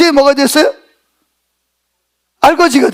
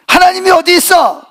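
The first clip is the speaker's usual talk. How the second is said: mildly indignant, pitched higher; acted indignant protest; 5 semitones higher than usual. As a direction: voice a sufferer's challenge to God. Acts out a despairing sufferer's protest. (살짝 높여 따지는 말투)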